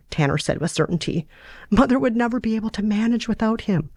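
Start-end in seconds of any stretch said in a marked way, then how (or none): 1.7-3.9 higher, pleading, slowing at the end; a hint of a frightened daughter; Sarah's voice. Sarah fearing for her injured father, higher and pleading.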